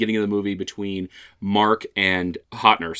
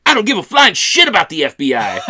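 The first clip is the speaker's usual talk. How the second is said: higher, louder indignant outburst, laughing through it; laughing mock defiance from a boy; indignant kid; 8 semitones higher, 6 dB louder than usual. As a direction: spit it out like an outraged kid. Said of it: "just fucking indignant".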